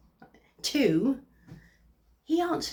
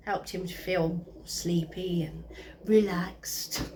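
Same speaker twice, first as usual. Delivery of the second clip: slow, half-whispered and drowsy; sleepy, soothing; 4 semitones lower, 4 dB quieter, slower than usual. Acted. Comedian describes ex lulled to sleep by a voice, sleepy and hushed. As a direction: let it sink into a slow whisper.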